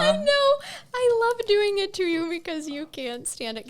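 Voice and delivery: put-on high, giggly Valley Girl voice. Needling the co-host who hates the voice, in Valley Girl. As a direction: rub it in with a Valley Girl lilt. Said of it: "I really hate that voice".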